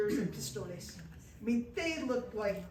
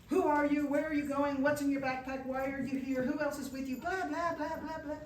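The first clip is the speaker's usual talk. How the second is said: retold shouting; 3 semitones higher than usual. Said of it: "they're shouting things like".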